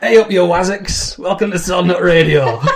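broad Yorkshire greeting, laughing; hey up like a Huddersfield local; northern accent. Pretend. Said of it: "talking in northern accents".

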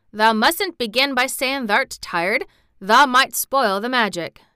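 put-on Yorkshire boy urging care; Yorkshire lad, earnest. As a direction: caution him in a Yorkshire way. Dickon warns Colin.

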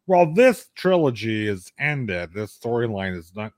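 slow, drawn-out evasive reply; stretched-out hedging; roundabout answer. Retold or imitated. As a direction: imitate someone carefully dodging the question. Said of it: "she has a roundabout answer".

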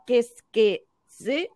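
"¿Qué es que sé?" drawn out slowly, syllable by syllable; phonetic demonstration. Shown as a demonstration. Teacher showing how a video spells out French, slow phonetic demonstration. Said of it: "te lo pone con K".

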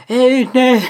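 high playful hey no; catchphrase squeal. Acted. Repeating his catchphrase to fans, high squeal. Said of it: "I said".

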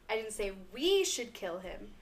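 "we" hit harder, the rest level; stress on we. Shown as a demonstration. Friend demos the example sentence with stress on "we". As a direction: press on "we" as if someone else should do it. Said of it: "if you emphasize on one word".

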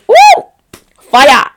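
a loud, high-pitched woo then fire; excited whoop. Real, not acted. Fan hyping the Love Island season, whooping excitedly. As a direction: cheer it like a fan.

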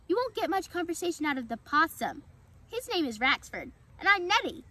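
high-pitched, eager squirrel voice; excited squirrel. A narrator's reading. Squirrel introducing herself to the fawn, excited and high. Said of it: "excited squirrel spoke quickly".

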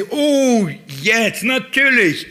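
a sudden high "Oh", then a slow drawn-out "jetzt, natürlich"; mock realization. Preacher mocks the women suddenly realizing, high and slow. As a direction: play the disciples finally getting it, high and slow. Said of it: "Sagten sie".

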